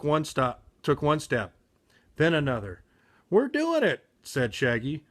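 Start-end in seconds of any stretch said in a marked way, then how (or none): 3.3-4.1 thrilled. Acted. Shaggy thrilled while skiing.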